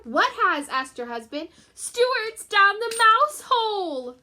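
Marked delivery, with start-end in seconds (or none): 0.0-0.7 husband asking. Acted. Husband asks, loud. 1.7-4.2 frantic mother. Acted. Mother wails, high loud slow.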